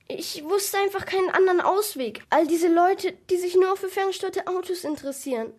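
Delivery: high, loud, distressed confession; tearful. A narrator's reading. Desperate shop owner confessing to the policeman, tearful. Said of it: "antwortete mit Tränen in den Augen".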